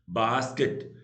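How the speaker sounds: बास्केट split as बास and केट; बास्केट with a lift on the second part; syllable demo. Shown as a demonstration. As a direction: break बास्केट into two beats. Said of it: "बास पहले बोला".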